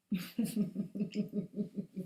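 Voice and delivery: soft, low laugh to oneself; low chuckle. Real, not acted. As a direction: chuckle quietly under the breath. Preacher laughs between her points.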